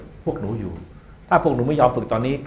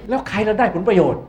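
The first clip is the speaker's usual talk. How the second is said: loud, higher questions in a row; rousing questions; 6 semitones higher, 6 dB louder than usual. Real, not acted. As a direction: fire questions at the room. Rhetorical questions to students.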